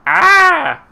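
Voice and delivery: high, loud startled shriek; piercing shriek. Acted. Startled corpse-robber leaping back, piercing shriek. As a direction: let out a piercing scream of fright. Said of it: "gives a piercing shriek".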